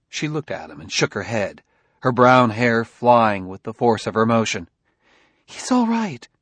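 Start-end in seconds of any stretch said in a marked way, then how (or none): 5.4-6.3 frantic. A narrator's reading. Jessie frantic.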